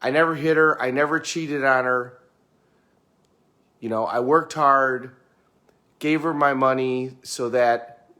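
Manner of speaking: lightly voiced aggrieved husband listing his virtues; defensive husband. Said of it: "that's how they would say it".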